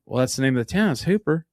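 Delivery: put-on defensive reply in West Texas accent. Explaining the town's name to puzzled friends, West Texas accent. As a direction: answer with West Texas slipping through. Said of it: "I could not shake that accent".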